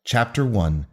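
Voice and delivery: showman's grand introduction with drawn-out words; big stretched opening, then measured title reveal; announcer voice. Acted. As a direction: announce it like a ringmaster presenting the main act. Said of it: "so proud of my announcer voice".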